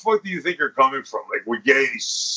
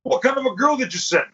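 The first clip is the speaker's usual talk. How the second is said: whiny client; 7 semitones higher than usual. Retold or imitated. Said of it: "to say".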